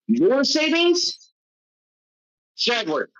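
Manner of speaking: high, slow disbelieving echo; incredulous. Acted. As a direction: scoff in disbelief. Incredulous at NPC claim.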